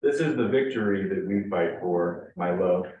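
spaced-out poem recital, line by line; poetry reading. Acted. Poet reads his Valentine's Day poem to an audience, measured recital. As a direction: let each line stand, pausing between images.

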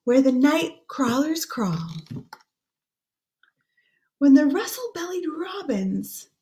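put-on hushed, lilting read-aloud for children; gentle storybook voice; story reading. Reads the rhyming book aloud.

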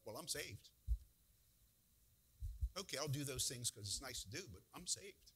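lightly acted complacent churchgoer; a touch of easygoing self-assurance; laid-back. Preacher mimics complacent believer claiming salvation, mildly laid-back. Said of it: "laid-back American Christian attitude of like".

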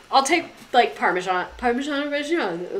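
mock Italian. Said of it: "they'd say it all fucking Italian".

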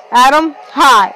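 slow and weighty greeting; oddly serious. A narrator's reading. Girl greets boyfriend, oddly serious and slow. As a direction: greet him like bad news is coming. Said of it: "I say, oddly serious".

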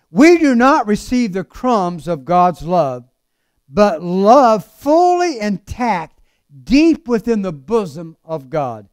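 slow, weighty pulpit delivery; measured preaching. Acted. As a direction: draw out each phrase with conviction. Preaches at full force.

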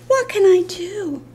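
high, playful lament; fond exasperation. Real, not acted. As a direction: wail it lightly over the puppy. Mock despair over the dog.

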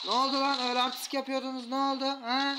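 sing-song jeering at a beaten foe; mocking taunt. Real, not acted. Taunting enemies after a win.

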